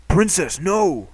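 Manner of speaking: loud alarmed call of "Princess, no". Acted. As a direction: call out to stop her. Character calling out in alarm.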